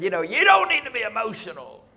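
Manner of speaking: lightly imitating an emphatic preacher; emphatic quote. Repeating Pastor Lindy's words to the men, mildly emphatic. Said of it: "he said it with some emphasis".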